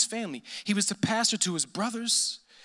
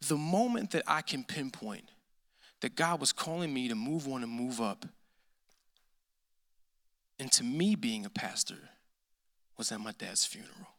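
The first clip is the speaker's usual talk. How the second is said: quiet, intimate grief; hushed to a whisper; 8 semitones lower, 7 dB quieter than usual. Real, not acted. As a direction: lower and softer, fading to a whisper. Recalling his father's funeral.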